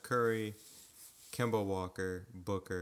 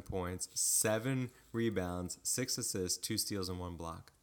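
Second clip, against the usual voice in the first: slow, deliberate reading. Shown as a demonstration. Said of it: "Wait, no pl".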